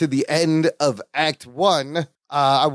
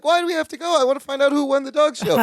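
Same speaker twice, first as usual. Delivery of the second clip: mock Marianne; 10 semitones higher, faster than usual. Voicing Marianne's exit line.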